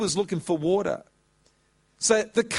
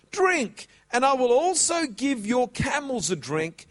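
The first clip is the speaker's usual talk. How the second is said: put-on eager young woman; 5 semitones higher than usual. Young woman's eager reply quoted.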